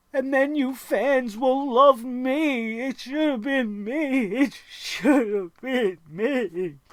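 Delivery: fake slow babyish whine, me drawn out. Retelling the promo, mock whining like a baby as Dolph Ziggler. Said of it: "he's whining like a baby".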